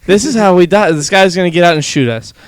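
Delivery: imitating sure we're about to die; imitating sure the driver will shoot them; mock panic. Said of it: "in my head, I was like".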